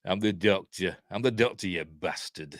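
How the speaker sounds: understated mock actor impression; Sean Bean. Host imagines actor playing the Doctor, lightly mimicked Yorkshire voice. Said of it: "That's what he'd have said".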